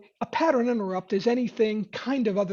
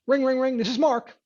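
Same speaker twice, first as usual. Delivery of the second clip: phone ring and answer; 4 semitones higher, 3 dB louder than usual. Shown as a demonstration.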